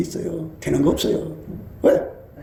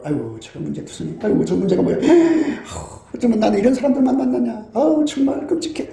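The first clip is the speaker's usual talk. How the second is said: mock disgusted judging. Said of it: "이러고 있는 거죠".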